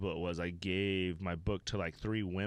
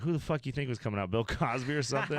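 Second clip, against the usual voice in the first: fast, higher, laughing through the joke; laughing opening line; 5 semitones higher, 4 dB louder than usual. Retold or imitated. Comic opening the set, fast and laughing. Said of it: "my first line was like".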